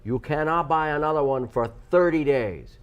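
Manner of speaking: a light, vague mock Godfather accent; some kind of accent. Host explaining coupon rules, light Godfather accent. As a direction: lightly put on a gangster accent. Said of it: "So what accent was that?".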